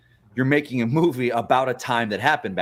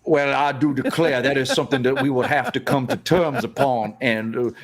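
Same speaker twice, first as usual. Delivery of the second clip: put-on Southern accent. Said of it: "do that Southern accent for a whole show".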